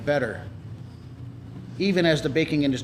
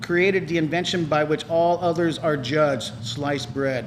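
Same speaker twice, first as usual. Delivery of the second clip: robot voice; slower than usual. Real, not acted. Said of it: "You sound kinda like an A I robot when you read that".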